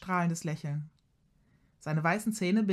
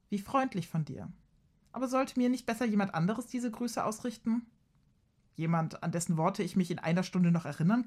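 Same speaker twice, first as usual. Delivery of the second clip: mocking; 2 semitones higher than usual. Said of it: "Seine Stimme trieft vor Spott".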